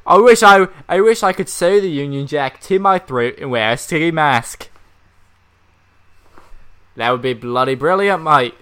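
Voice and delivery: lightly put-on British accent; a hint of a British accent. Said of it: "that was more Australian".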